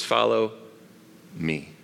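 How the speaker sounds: soft, drawn-out "Follow me", fading down; gentle invitation. Shown as a demonstration. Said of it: "He says".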